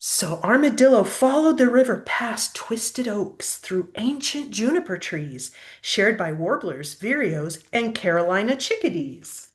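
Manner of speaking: lively, sing-song storybook reading; picture-book story voice; reading to children. Acted. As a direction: read the rhyme aloud to a child. Reads story aloud.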